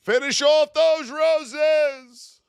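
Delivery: high, loud and very slow; hyped drawn-out cheer. Real, not acted. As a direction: stretch each word to rally the chat. Urging viewers to send roses.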